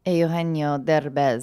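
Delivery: Eugenio Derbez said slowly with Spanish sounds, eh-oo-HEN-yo dehr-BEHZ; Spanish name. Shown as a demonstration. Co-star asked how to say her co-star's name, careful Spanish. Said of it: "Very good".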